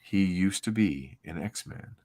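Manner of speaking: measured, dramatic comic-book narration; story narration. Acted. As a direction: read it like a solemn, grand opening. Reads comic narration aloud.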